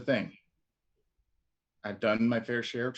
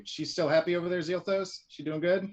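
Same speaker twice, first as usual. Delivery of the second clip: calling out loudly; 8 semitones higher than usual. Acted. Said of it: "Very loudly".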